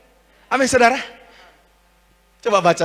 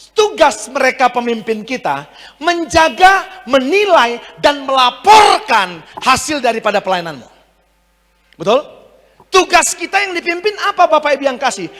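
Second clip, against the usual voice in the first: emphatic preaching; 8 semitones higher, 6 dB louder than usual. Real, not acted. Preacher telling the congregation their duty, emphatic. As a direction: preach it as a firm charge.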